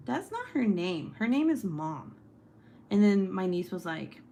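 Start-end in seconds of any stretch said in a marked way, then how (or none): 0.1-2.2 mock-indignant correction, a bit higher; imitating annoyed husband. Husband correcting little niece, mildly mad retold voice. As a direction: lightly play an exasperated dad. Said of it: "he kept getting mad at her".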